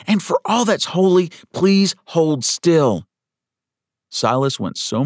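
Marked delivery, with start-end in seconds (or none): 0.1-3.1 high, louder, strained plea; exasperated order through gritted teeth. A narrator's reading. Schoolteacher holding down a patient arching his back, through gritted teeth. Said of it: "Miss Thompson said through gritted teeth".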